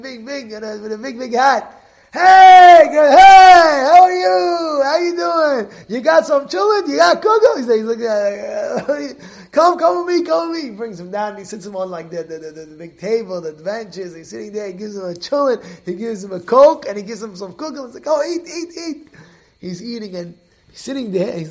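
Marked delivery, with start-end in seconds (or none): 2.1-7.6 high, shouted, overjoyed welcome; booming Hasid greeting. Retold or imitated. Big Hasid greets the newcomer. 9.5-10.7 high and loud, pulling him along; eager loud invitation. Retold or imitated. 18.1-19.1 urging to eat. Retold or imitated.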